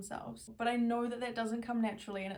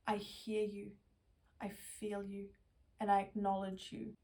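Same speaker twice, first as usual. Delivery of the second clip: gentle affirmations; slower than usual. Shown as a demonstration. Speaker soothing her own inner child, slow and tender.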